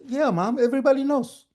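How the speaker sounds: high, emphatic reply; exasperated. Acted. Son to shocked mom, exasperated and high. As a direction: insist that it is common knowledge.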